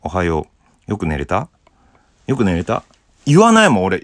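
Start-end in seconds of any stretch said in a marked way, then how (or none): 0.0-2.8 soft, low, natural good morning. Shown as a demonstration. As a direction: say it in your own unforced voice. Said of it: "普通の声の方がいいもんね。素の声。". (素の声で優しく)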